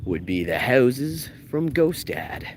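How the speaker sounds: slow, drawn-out Canadian vowels; Canadian accent. Real, not acted. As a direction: let the Canadian accent slip out. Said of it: "I let my Canadian accent slide".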